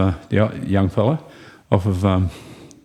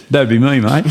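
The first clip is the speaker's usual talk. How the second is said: laughing through it; 4 semitones higher, 4 dB louder than usual. Real, not acted.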